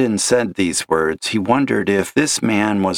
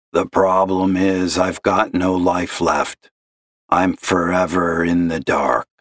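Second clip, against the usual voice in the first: a despairing caller's gravelly drone; gloomy gravelly caller; 2 semitones lower than usual. Acted. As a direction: sigh it out like a lost man. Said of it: "gravelly voice like that".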